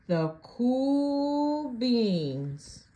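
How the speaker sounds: stretched out very slowly; drawn-out cool. Acted. Narrator savouring the cool beans' name, very slow.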